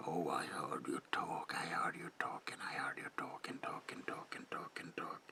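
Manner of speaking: whispered words looping over and over, fading away; eerie, obsessive echo of "talk"; mocking repetition. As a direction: repeat it like endless chatter, dying off. Mimics overheard chatter, trailing away.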